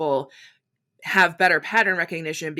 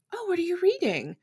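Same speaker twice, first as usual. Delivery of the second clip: chirpy asker; 11 semitones higher, 5 dB quieter than usual. Retold or imitated. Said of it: "and you ask me".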